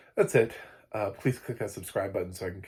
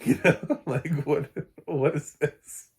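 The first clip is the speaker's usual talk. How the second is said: laughing in disbelief, pitched up; real amused laughter; 7 semitones higher, 6 dB louder, slower than usual. Real, not acted. Reviewer mocking the actors' muddled accents, laughing. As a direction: laugh your way through the question.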